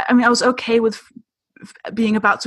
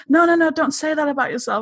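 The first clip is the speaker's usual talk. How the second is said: mildly imitated indignation, higher pitch; retold offended protest; 6 semitones higher than usual. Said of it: "she got really offended on".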